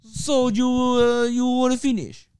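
put-on a lightly done Italian lover accent. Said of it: "how's that Italian?".

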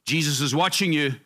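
a hint of an unseen watcher calling out; mysterious voice. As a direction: lightly put on a disembodied warning voice. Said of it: "then a voice comes out".

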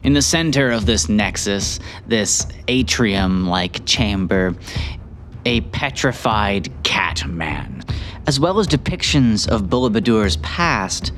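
game master recap. A narrator's reading. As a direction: set the scene like a storyteller.

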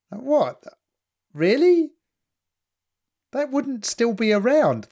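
high-pitched, stretched-out disbelief; incredulous. Acted. Viewer doubting the cross relic, acted incredulity. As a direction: question it with your pitch leaping up.

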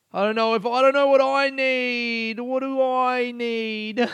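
high, slow, choked-up rush of feeling; overwhelmed, words catching; giddy disbelief, voice up high; overcome with emotion. Real, not acted.

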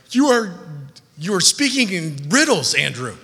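hammed-up puzzled complaint; mock bafflement. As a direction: play a confused churchgoer objecting. Voices a confused listener's complaint.

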